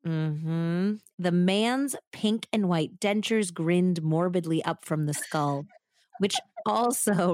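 measured, suspenseful true-crime telling; story narration. A narrator's reading. Host telling the murder story to her co-host, suspenseful narration.

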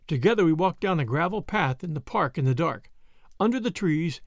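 ordinary delivery, nothing marked

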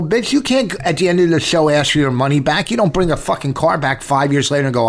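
hammed-up scolding of a drunk heckler; retold rant. Husband retelling how he chewed out a heckler, mock angry. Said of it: "I go".

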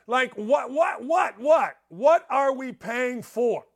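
rising, shouted what what what; fed-up caller venting about taxes, shouting; exasperated outburst. Real, not acted. Angry caller ranting about taxes.

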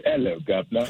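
stereotyped Cockney greeting, lightly done; a hint of a fake British accent; mock English accent. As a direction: tip a cap as a cliché Londoner. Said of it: "if you ask someone to do an English accent".

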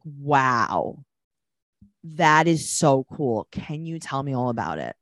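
slow, exaggerated fake amazement; heavily sarcastic. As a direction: lay the mock fascination on thick. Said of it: "way more sarcastic than me".

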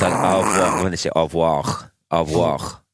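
"au revoir" with a throaty French r, vwɔx. Shown as a demonstration. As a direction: say "au revoir" the French way, rolled at the end. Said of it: "they do that".

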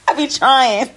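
high, laughing self-mockery; real laughter breaking into the words. Real, not acted. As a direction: squeeze the words out through laughter. Laughing at own mispronunciation.

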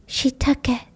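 soft ghostly whisper; eerie whisper. Acted. A ghostly voice whispering to Sonny. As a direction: let it drift in like a ghost. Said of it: "whisper that sounds like her voice".

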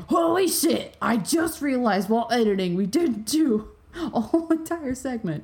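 mock shocked realization. Co-host imagining the other discovering a mistake while editing, mock shock. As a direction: act out a sudden editing realization. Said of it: "you would have been like".

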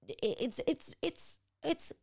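halting start, then high, drawn-out "scary"; real choking up. Real, not acted. Mother-to-be confiding her fear of birth, choked up. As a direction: get stuck on the words, voice climbing very high.

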